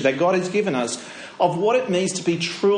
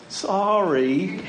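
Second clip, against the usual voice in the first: sweet little sorry; 3 semitones higher than usual. Retold or imitated. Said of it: "give me that sweet little smile and go".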